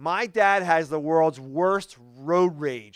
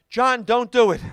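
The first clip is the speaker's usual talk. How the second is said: raised, high mock yell from the back seat; comic motherly yell, higher and louder; mom yelling out; 6 semitones higher, 6 dB louder than usual. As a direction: imitate a worried mom calling out a warning. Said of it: "yelling out".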